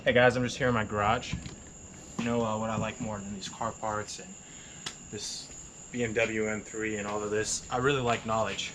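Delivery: lightly voiced guru ad spiel; a hint of a garage-lecture pitchman; Tai Lopez impression. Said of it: "Tay Lopez taught me that".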